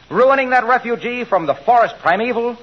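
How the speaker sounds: grand theatrical lament; dramatic declaiming. Acted. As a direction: overblown stage delivery. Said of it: "skip the dramatics".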